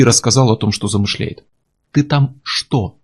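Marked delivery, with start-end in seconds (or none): 1.9-3.0 slow, spaced-out calm question; ominous calm. A narrator's reading. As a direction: stay very calm, with menace underneath. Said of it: "голос теперь звучал очень спокойно". (зловещее спокойствие)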